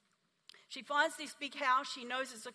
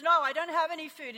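firm refusal; 4 semitones higher, 8 dB louder than usual. Retold or imitated. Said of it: "And he goes".

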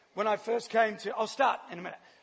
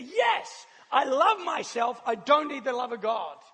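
a sharp, higher indignant yes; indignant retort; 4 semitones higher, 4 dB louder, slower than usual. Retold or imitated. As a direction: snap back at the caller, offended. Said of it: "And she was mad".

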